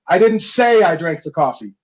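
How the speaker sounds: firm hit on "didn't", then falling tune; stress on DIDN'T. Shown as a demonstration. Coach repeating the demo, weight on "didn't". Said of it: "you can literally say it seven different ways".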